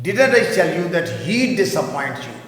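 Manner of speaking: slow, careful reading; teacher models contraction; slow model sentence. Shown as a demonstration. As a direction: read it slowly. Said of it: "اس کی sound آئے گی he'd".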